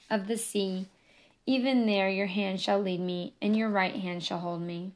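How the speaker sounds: the local official's fuller psalm reading, hint of an African accent; accented reading aloud. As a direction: read it out to the room with a lightly voiced African accent. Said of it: "with his thick accent rolling the R's".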